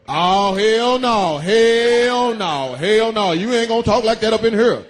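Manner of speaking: slow, drawn-out mock bouncer; lightly voiced guard shutting him down; security guard voice. Comic retelling a security guard scolding him, lightly voiced mock bouncer. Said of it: "The fucking security guard".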